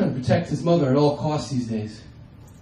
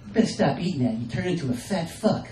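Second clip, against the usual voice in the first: a hint of wife nagging; 5 dB quieter than usual. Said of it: "repeating the things that she says".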